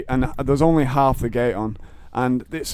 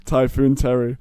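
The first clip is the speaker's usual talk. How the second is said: normal talking voice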